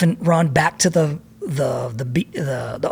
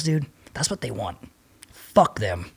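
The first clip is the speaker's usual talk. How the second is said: soft, lower defiant whisper; hushed whisper; 5 semitones lower, 7 dB quieter than usual. Retold or imitated. Whispering in the surf.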